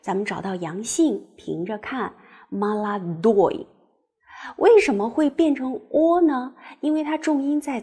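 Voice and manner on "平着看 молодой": молодой with the stress on the final ой, drawn out slowly; stressed ending. Shown as a demonstration. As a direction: lean on the last syllable of молодой. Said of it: "那就是ой这个形式".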